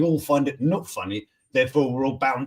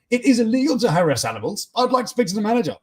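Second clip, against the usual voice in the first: prissy complaining Karen, a touch higher and faster; 7 semitones higher, 3 dB louder, faster than usual. Retold or imitated. A commenter doing a Karen demanding the manager. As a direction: whine it like an entitled customer. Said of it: "another added, Yeah, Karen".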